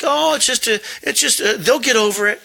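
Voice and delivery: high, dismissive brush-off; mock careless shrug of a voice; dismissive imitation. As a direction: toss it off like it's nothing. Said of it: "And you think".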